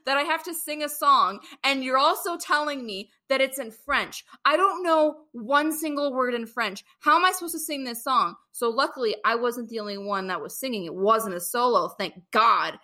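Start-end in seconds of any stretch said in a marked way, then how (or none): 0.0-8.4 higher-pitched mock disbelief; retold incredulous protest. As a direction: protest as if blindsided by absurd demands. Retelling her incredulous reaction to the director.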